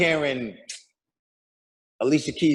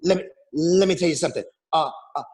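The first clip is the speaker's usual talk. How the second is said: imitated stutter; faster than usual. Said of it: "I stutter when I talk".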